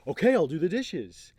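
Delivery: loud, high-pitched mock giving in; exasperated compliance. Man to upset woman, mock exasperated compliance. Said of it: "man who's not in tune with".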